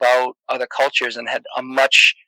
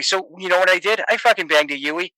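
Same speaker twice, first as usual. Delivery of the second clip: a somewhat higher, lightly hammed Boston accent; Boston guy finishing his traffic stop tale; 5 semitones higher than usual. Telling the listener how the statie let him off, in a Boston accent. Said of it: "I'll tell you a story in, in a Boston accent".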